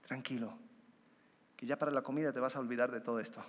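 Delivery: soft, low, quick soothing murmur; a tempting voice hurrying to calm you; little inner voice. Retold or imitated. The little inner voice soothing the listener, soft and fast. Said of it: "Y la vocecita dice".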